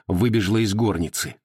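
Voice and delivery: ordinary delivery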